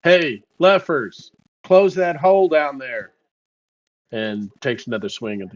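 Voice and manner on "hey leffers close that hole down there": calling down the street; half-hearted shout to someone below; slightly raised, drawn-out street call; mild yell. Acted. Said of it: "he yells down the streets".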